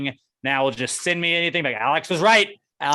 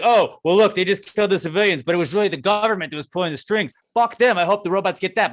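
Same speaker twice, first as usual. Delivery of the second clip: excited viewer; 6 semitones higher, 5 dB louder than usual. Retold or imitated. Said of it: "you'd be like".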